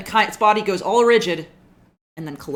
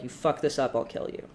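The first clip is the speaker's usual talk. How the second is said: menacing whisper; 3 semitones lower, 5 dB quieter than usual. Acted. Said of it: "looks at you like".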